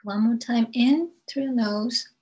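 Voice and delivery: unhurried meditation guide, long pauses between phrases; spaced-out phrases, leaving room to breathe; guided meditation. Acted. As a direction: lead listeners gently through breath and grounding.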